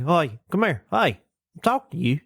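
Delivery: put-on redneck accent, badgering; imitated pushy Southern heckler; obnoxious redneck. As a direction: summon someone like a mock Southern redneck. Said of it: "obnoxious redneck that's like".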